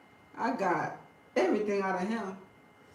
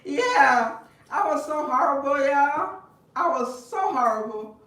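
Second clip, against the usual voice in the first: louder, higher, amused admission; gleeful confession; 6 semitones higher, 9 dB louder, slower than usual. Real, not acted. Admitting to viewers she was horrible, gleeful. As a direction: own up with a grin.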